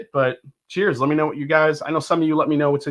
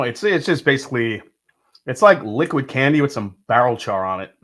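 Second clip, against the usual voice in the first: ordinary delivery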